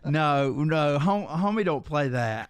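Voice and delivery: loud refusal. Real, not acted. Refusing Zoom in bathroom.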